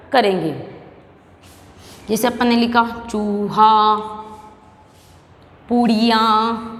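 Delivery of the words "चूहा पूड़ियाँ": चूहा, पूड़ियाँ slowly, with drawn-out oo; long u. Shown as a demonstration. Teacher modelling big u words, चूहा, पूड़ियाँ stretched slowly. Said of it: "इस तरह हम बड़े ऊ की मात्रा".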